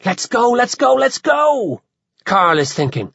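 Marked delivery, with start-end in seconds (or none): 0.0-1.8 high, urgent pleading to leave. A narrator's reading. Carl thinking he must leave the druid, urgent. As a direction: plead to get away, pitch climbing. Carl's urgent silent thought.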